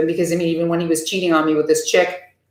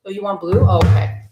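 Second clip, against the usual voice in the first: normal talking voice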